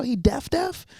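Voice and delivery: unvoiced, hushed disbelief; whisper. Retelling asking her friend if he's really deaf, whispered. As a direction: whisper it like a secret you can't believe.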